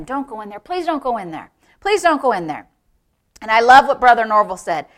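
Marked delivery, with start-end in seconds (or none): 0.0-2.7 mild pleading. Retold or imitated. Devil begs Norval not to go in, mildly pleading. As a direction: plead with a touch of desperation. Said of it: "begging and pleading with him".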